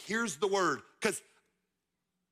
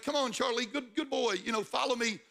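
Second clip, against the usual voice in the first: high, coaxing dog-owner voice; lightly voiced owner coaxing his dog Charlie; talking to a puppy; 5 semitones higher than usual. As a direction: call your puppy along with high encouragement. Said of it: "it's like my puppy is following me".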